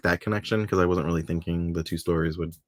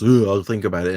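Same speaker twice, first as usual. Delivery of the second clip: mock pondering; 6 dB louder than usual. Host imitating Pete answering a date request, mock hesitant. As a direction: make a show of mulling it over. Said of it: "And he goes".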